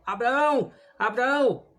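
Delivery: restrained storyteller's cry; narrated call from heaven. A narrator's reading. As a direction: call out the name twice, as if from afar. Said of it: "lhe gritou do céu".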